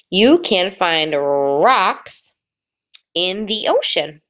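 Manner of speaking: put-on slow, drawn-out reading for children to follow; slow read-along. Shown as a demonstration. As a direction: pause before the last word. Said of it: "try to read along with me".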